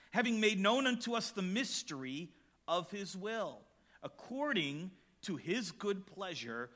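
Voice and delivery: measured, solemn reading of the Bible text; scripture reading. Acted. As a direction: read the chapter aloud to the congregation. Reads Ephesians aloud.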